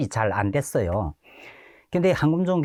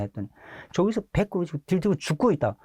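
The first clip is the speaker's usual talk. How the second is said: ordinary talk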